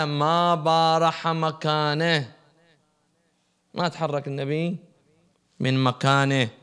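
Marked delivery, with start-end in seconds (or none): 0.0-2.3 slow emphatic quote. Acted. Quoting the imam slowly.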